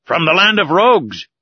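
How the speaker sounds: angry harpooner mocking the captors; scornful retort. A narrator's reading. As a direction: spit out the insult.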